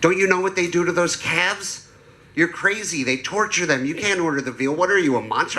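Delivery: mock outraged protest; mock yelling. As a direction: imitate appalled dinner companions piling on. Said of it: "Everybody at table started yelling at me".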